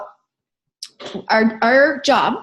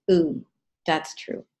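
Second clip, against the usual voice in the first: hushed realization; 6 semitones lower, 6 dB quieter, slower than usual. Retold or imitated. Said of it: "And I was like".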